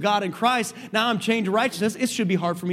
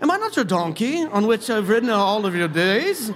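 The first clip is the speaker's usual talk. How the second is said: put-on British-accented delivery. Voicing the donkey's words to Balaam in a put-on British accent. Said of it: "I just hear this almost like in a British accent".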